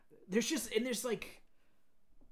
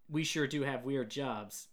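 slow, mock-deadpan coroner; emotionless; slower than usual. Imitating a film's coroner for a co-host, emotionless. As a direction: imitate her with no emotion at all. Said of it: "She has no emotion".

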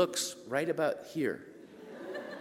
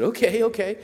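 eager okay; 10 semitones higher, 5 dB louder than usual. Retold or imitated. Excited reply, +10 semitones.

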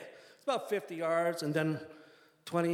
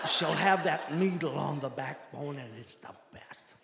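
imitated Midwestern accent; 3 dB louder than usual. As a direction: relish it like a Midwestern old hand. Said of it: "exaggerated Midwestern accent".

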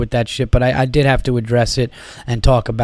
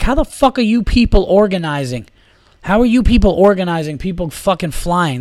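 higher-pitched, indignant complaint; retold exasperation; 5 semitones higher than usual. Traveler berating airport staff, retold exasperation. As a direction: demand an answer in annoyed disbelief.

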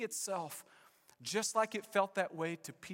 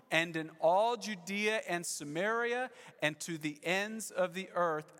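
slow, measured group recitation of the verse; reciting together. Real, not acted. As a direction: read it aloud with the whole church, slowly. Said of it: "Church, say it with me".

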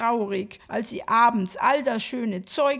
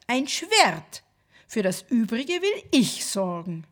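lisping nutcracker; 2 semitones lower than usual. Acted.

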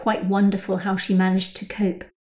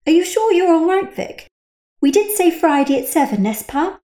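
higher, coaxing concern; concerned Rachel; 9 semitones higher, 4 dB louder than usual. A narrator's reading. Rachel checking on her silent friend, concerned. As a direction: ask with light worry.

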